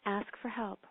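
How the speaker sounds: calm, unhurried meditation voice with long pauses; guided meditation. Acted. Host guides podcast listeners into prayer, calm meditation voice. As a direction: ease the listeners into prayer, gently.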